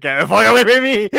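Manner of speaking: yelling at a rolling head to back off; panicked yell. Retold or imitated. Retelling Johnny Depp fleeing the head, mock panicked yell. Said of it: "Johnny Depp's like".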